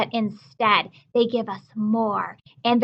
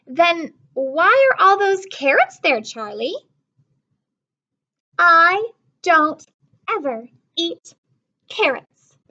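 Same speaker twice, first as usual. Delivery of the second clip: put-on higher, slow, picky little girl voice; fussy little sister; 6 semitones higher, 4 dB louder, slower than usual. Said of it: "Lola looked at the table".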